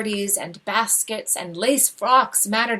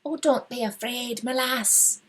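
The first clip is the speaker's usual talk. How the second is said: fond and sly. Acted. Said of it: "her voice sounded fond and sly".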